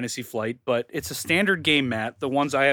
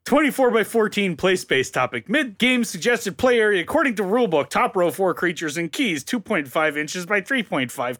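nerd voice; 5 semitones higher than usual. Retold or imitated. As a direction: read the stats like an eager nerd. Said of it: "I'm reading this so hard in my nerd voice".

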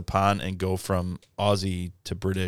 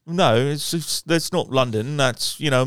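Mike; 5 semitones higher than usual. Retold or imitated. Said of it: "Mike used to say".

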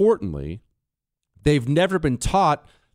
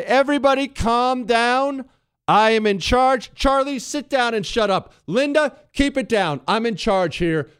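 pompous shrill tyrant; 6 semitones higher than usual. Pretend. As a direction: bark orders like a pompous boss. Mocking a leader in a crisis.

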